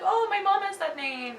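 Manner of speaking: high-pitched friendly imitation; sweet. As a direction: imitate a sweetly delighted author. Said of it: "she was so sweet".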